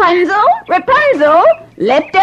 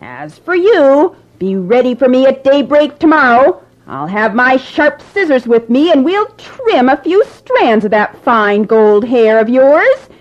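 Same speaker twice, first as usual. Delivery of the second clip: louder, higher menacing crone; a hag threatening cruelly; angry witch; 5 semitones higher, 4 dB louder than usual. Acted. Sorceress threatens Rapunzel about her visitor, menacing old crone. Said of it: "Trembling with anger".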